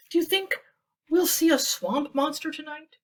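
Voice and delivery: high, slightly nervous question; a little nervous. Acted. Goose asking Duck nervously about the swamp monster. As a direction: ask it half hoping the answer is no. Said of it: "Goose asked a little nervously".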